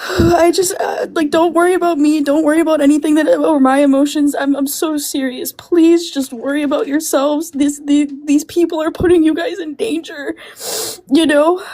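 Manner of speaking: tearful, breaking plea to stay safe; crying. Real, not acted. To friends in the chat, pleading through real tears. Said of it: "It is okay to cry".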